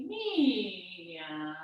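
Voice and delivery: long, soft, falling meow; a contented cat's drawn-out meow; happy cat meow. Pretend. Teacher's cat is happy again, soft long meow. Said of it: "But I'm happy".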